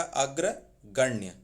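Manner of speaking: अग्रगण्य drawn out slowly, each syllable clear; slow correct form. Shown as a demonstration. Teacher drills the correct word for students slowly. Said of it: "शुद्ध रूप है".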